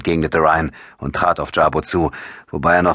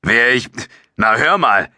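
indignant comeback, higher and louder; losing patience; 7 semitones higher, 4 dB louder than usual. A narrator's reading. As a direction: protest as if insulted by the question. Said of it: "Allmählich verlor Jabo die Geduld".

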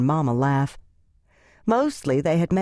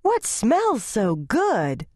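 put-on high, slow, hungry little girl; a girl drawn in by the smell, higher; little girl asking about the food, high and eager; eager child; 6 semitones higher, much slower than usual. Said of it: "Pie just bolted in and asked".

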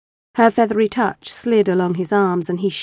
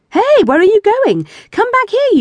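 much higher, louder call after her; 12 semitones higher, 5 dB louder than usual. Acted. Husband calls after his wife as she leaves. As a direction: call her back, half laughing.

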